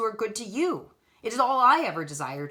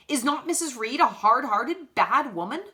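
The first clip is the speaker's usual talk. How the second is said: impatient; 4 semitones higher, 4 dB louder than usual. Acted. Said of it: "I asked impatiently".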